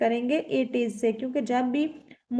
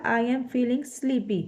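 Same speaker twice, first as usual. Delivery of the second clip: slow dictation; much slower than usual. Shown as a demonstration. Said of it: "यहाँ पे sentence हमारा बनेगा".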